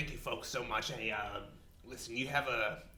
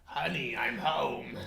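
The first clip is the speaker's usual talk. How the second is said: louder, hammed-up sitcom homecoming call; sitcom spouse; 5 dB louder, slower than usual. Husband arriving home to his wife, a hammed-up sitcom call.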